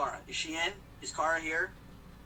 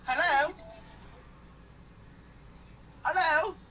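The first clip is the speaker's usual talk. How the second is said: high, raised questioning hellos; calling down the line; 8 semitones higher, slower than usual. Real, not acted. To a caller who is breaking up, calling out high. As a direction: call out high for a lost caller.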